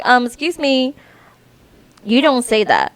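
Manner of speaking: lightly stern "excuse me", then a correction; a mild reprimand with a touch of a laugh; mild scolding. Retold or imitated. Correcting the boy Rowan, gently scolding. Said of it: "And I'm like".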